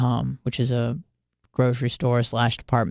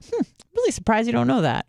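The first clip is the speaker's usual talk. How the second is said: mocking friend; 7 semitones higher, faster than usual. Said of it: "But when he says to me".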